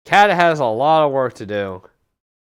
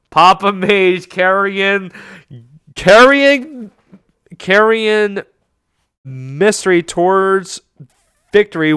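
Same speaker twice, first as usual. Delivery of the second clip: excited build-up; 3 semitones higher than usual. Real, not acted. Caster hypes a repeated word.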